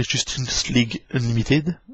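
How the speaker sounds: slow English title in a French accent. Real, not acted. French toy vlogger reading the English title slowly in his French accent. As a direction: spell out "Justice League Unlimited" carefully with a French accent. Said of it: "excusez-moi pour mon accent".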